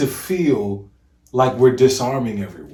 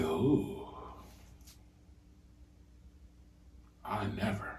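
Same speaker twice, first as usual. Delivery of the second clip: mock shocked lady; 5 semitones lower, 16 dB quieter than usual. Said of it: "You feel like".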